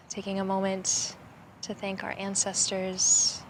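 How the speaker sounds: calm, even guiding voice with long pauses; unhurried meditative phrases, slightly softened; guided meditation. Acted. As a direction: lead them gently through gratitude and breath. Leads gratitude and breathing meditation.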